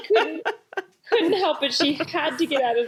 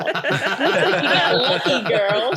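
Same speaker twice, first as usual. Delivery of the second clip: sassy officer voice; 4 semitones higher, 5 dB louder, slower than usual. Acted. Jail officer voiced, laughing.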